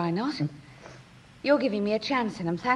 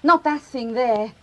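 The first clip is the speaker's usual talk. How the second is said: contemptuous fury. Acted. Daughter disowning her drunk father to her mother. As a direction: spit out each word with disgust.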